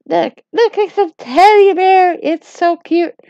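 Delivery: high, nervous backpedalling; flustered pleading. Acted. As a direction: scramble to explain, pitch climbing in a panic. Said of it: "So I was like".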